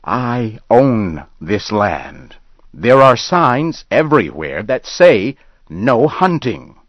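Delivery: anger barely holding back fear; shaking with fear and anger. Acted. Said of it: "Ben's voice shook with both fear and anger".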